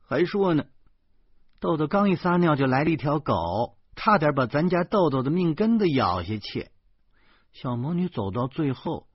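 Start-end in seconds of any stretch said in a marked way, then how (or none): 0.1-6.7 grumbling wife. A narrator's reading. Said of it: "老婆哼哼着说".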